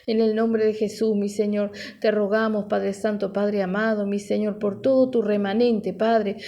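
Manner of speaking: steady, flowing congregational prayer; fervent prayer. Real, not acted. Pastor asking the Father to minister to listeners, fervent prayer. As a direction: pray earnestly in an unbroken stream of petitions.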